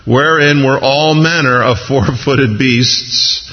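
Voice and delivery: slow, measured Bible reading; scripture reading. Acted. Preacher reading Peter's vision to congregation, slow scripture reading. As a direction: read it out slowly, phrase by phrase.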